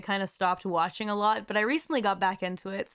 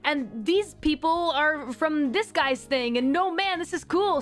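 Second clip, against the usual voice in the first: excited fan; 5 semitones higher than usual. Retold or imitated. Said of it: "I'd be like".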